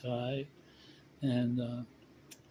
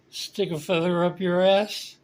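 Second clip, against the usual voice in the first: put-on louder, higher, slow drunken proposition; loud drunk come-on; 7 semitones higher, 7 dB louder, slower than usual. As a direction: bellow the clumsy pickup line slowly. Drunk repeats line to old lady.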